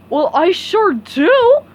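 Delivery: loud, slow gleeful answer; dopey happy yes; delighted. Acted. Patrick accepts SpongeBob's offer, loud gleeful.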